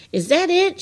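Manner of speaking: high, eager call; excited shout. A narrator's reading. Milo running toward the shining city, shouting excitedly. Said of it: "shouted Milo".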